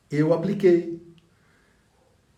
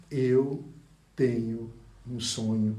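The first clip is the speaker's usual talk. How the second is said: quoting a slogan; 2 semitones lower, slower than usual. Retold or imitated. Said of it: "Para Martin Luther King".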